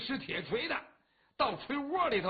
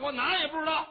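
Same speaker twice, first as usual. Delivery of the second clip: higher, louder, brushing him off; curt shout; 7 semitones higher, 8 dB louder, faster than usual. A narrator's reading. Qi snapping at the stranger asking the way, loud curt retort. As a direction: bark it to end the question. Qi snaps again.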